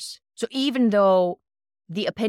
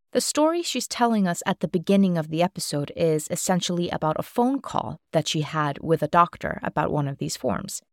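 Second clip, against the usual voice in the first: scripted context segment, evenly paced; brief the listeners in a clear presenter voice; podcast host read; 2 semitones lower than usual. Real, not acted.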